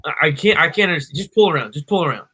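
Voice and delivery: flustered giving up. Retold or imitated. Drive-thru worker can't understand customer, mildly exasperated. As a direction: cut yourself off and wave them on loudly.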